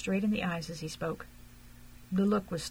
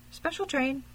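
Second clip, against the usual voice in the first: pleasantly offered answer, pitched higher; 6 semitones higher than usual. A narrator's reading. Detective greeting his surprised client, pleasant. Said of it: "Mister Beck answered pleasantly".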